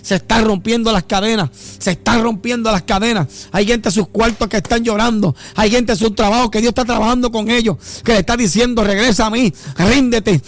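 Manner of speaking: steadily intensifying revival preaching; worship building to exhortation. Real, not acted. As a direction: chant praise, then mount into pleading.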